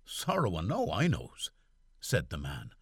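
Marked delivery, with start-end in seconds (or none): 0.0-1.5 raised Irish servant's query; puzzled valet asking back; lightly voiced Irish valet; Barney's voice.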